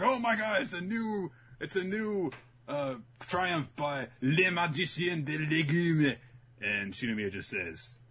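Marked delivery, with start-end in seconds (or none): 0.0-6.2 high mock gushing, dragging out the French name; hammed-up amazement. Everyone hails the vegetable triumph, hammed-up gushing. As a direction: gush like a starstruck crowd.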